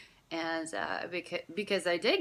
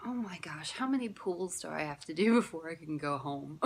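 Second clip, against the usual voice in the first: whiny giving up. Retold or imitated. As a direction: grumble it like a bored teenager wanting home. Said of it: "I'm, like, going".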